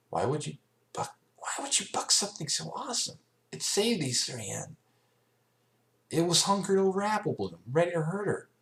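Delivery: can't believe she bucked it; indignant Rainbow. A narrator's reading. Rainbow Dash scolding Applejack, indignant.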